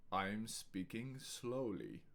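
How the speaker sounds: unhurried, quiet delivery; slow and soft. Shown as a demonstration. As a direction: ease it out slowly and gently. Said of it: "I will say each sentence in a few different ways".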